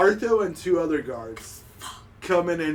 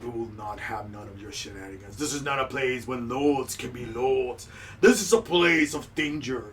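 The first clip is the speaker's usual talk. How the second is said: gruff guard captain; 5 semitones lower, 3 dB quieter than usual. Acted. Bartho scolding the noble, lower and softer. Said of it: "Bartho is like".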